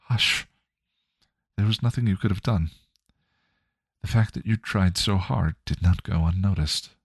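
Joyce, gentle mother. Acted. Joyce's spirit reassuring Spike, lightly voiced gentle mother.

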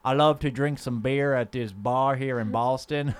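slow put-on Southern character; Cliff. Cliff telling his boring anecdotes, slow Southern character. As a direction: draw it out like a dull Southern postman. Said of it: "I'm Cliff".

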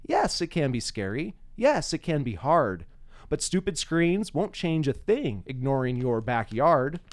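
slow, measured poetry recital; unhurried spoken-verse delivery; poem reading. Acted. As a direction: read it like a poem for the room. Reads his poem aloud.

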